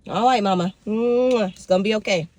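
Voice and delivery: soothing pet talk with a kiss; reassuring a pet. Real, not acted. Owner reassures her dog it will be okay, soothing. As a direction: comfort your dog, kiss in the middle.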